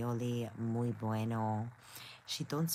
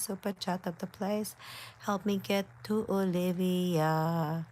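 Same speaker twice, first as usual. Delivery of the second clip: higher, slow drawn-out playful begging; mock pleading; 4 semitones higher than usual. Streamer begging viewers for super chats, mock pleading. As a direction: plead in long stretched-out words. Mock plea for donations to visit.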